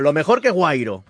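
slow, deliberate ad read of "lo mejor que Guairo"; a mock radio plug for the sponsor Guairo, read slow; ad slogan. Shown as a demonstration. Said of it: "Compren a Guairo".

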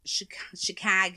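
Chicago in a Midwestern accent. Shown as a demonstration. Host trying out Midwest talk, Midwest accent. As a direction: lightly imitate a Midwesterner. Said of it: "in the Midwest. You have, like".

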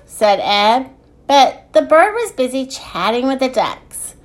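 measured picture-book narration with lilting phrases; story reading. A narrator's reading. Podcast host reading a children's book, storytelling. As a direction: read it aloud to small children.

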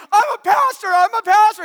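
loud retold desperate cry; frantic pleading. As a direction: plead in panic while pinned down. Slammed on car, pleading.

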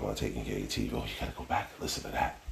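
a quick, soft whispered plug; whispered aside. Real, not acted. Plugging his own podcast in a fast whispered aside.

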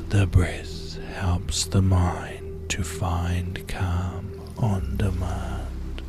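very slow, whispered mantra, drawn out. Shown as a demonstration. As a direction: breathe the mantra out slowly in a whisper. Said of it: "One more time now".

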